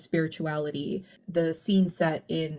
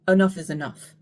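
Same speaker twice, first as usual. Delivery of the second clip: stern confrontation; 7 dB louder than usual. Retold or imitated. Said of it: "she is very sternly and aggressively confronting".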